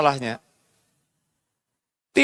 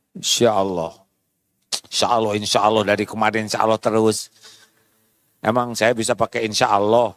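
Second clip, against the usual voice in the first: much lower, mocking retort; grumbling mock wife; 10 semitones lower, faster than usual. Wife sneering at her husband's endless insya Allah, mocking. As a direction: throw the promises back sarcastically.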